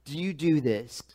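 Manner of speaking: a touch of an accusing priest; forceful demand. Retold or imitated. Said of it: "forcibly say to them".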